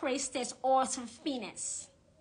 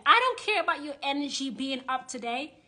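angry rant; 2 semitones higher, 6 dB louder than usual. Real, not acted. Ranting at scammer witches.

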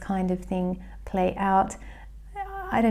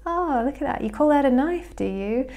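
casual Aussie; 5 semitones higher than usual. Retold or imitated. Crocodile Dundee sizing up the mugger, mock casual and unbothered. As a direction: toss it off like it's nothing, mock casual. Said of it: "just Aussie and casual".

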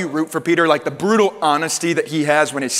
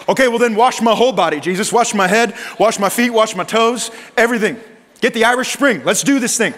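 hammed-up enthusiasm, wash everything; eager overcorrection; 4 semitones higher than usual. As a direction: Peter gushing to Jesus, mock excited.

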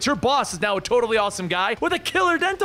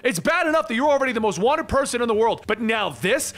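raised-pitch angry telling-off; mild acted shout down the phone; 5 semitones higher than usual. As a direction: scold him in a pitched-up voice. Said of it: "Peter shouts at him".

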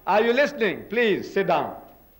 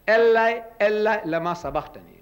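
Jesus crying out; 3 semitones higher than usual. Retold or imitated. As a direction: quote the cry with a strong opening call. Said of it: "Jesus Christ cries out".

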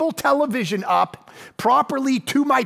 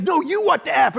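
higher shouted comeback; the other guy shouting back; retorting shout; 6 semitones higher than usual. Retold or imitated. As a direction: throw it right back at him. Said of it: "he's like".

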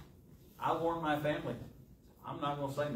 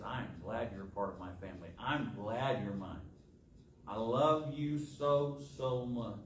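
tender; 3 semitones lower than usual. Acted. God voiced lovingly to his children.

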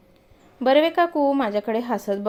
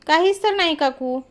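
nervous denial, pitched up; fearful; 6 semitones higher than usual. A narrator's reading. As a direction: stammer out a scared denial. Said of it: "मी भीत भीत म्हणालो". (घाबरत घाबरत नकार)

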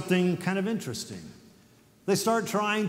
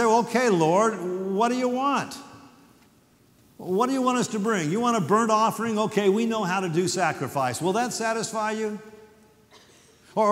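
higher, mock-eager bargaining with God; sarcastic; 4 semitones higher than usual. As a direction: offer it all with a sarcastic edge. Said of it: "They're almost sarcastic".

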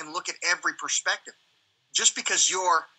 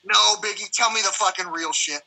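mock demand; 2 semitones higher, 4 dB louder than usual. Captors' demand voiced in story.

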